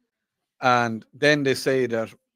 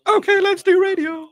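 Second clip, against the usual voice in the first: hyped intro; 5 dB louder than usual. Acted.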